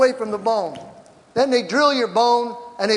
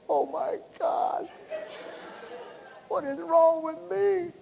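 high, slow, soft wail; imitated tearful despair; 9 semitones higher, 6 dB quieter, slower than usual. Patient laments after foot surgery, acted-out high tearful wail. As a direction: whimper it slowly as if crying to God.

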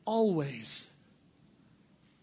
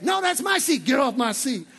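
mock shouting woman. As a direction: claim the chair by force. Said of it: "playing that game".

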